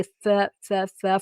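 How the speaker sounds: practising "th" over and over; th sound drill. Shown as a demonstration. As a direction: repeat "th" with the tongue between the teeth. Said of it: "fazer os sons mesmo".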